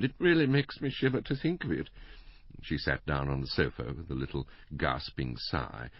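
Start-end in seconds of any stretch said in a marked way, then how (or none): 0.0-1.9 high, plaintive invalid wife; Missus Bland, murmuring. A narrator's reading. Wife entering on talk of a murder, plaintive murmur. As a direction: lament it in a high, delicate voice. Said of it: "murmured Missus Bland".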